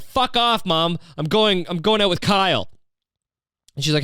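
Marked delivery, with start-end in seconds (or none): 0.0-2.7 put-on high, snotty teenage brush-off; bratty teen daughter. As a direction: sneer it at mom like a bratty teen. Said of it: "she'll be like".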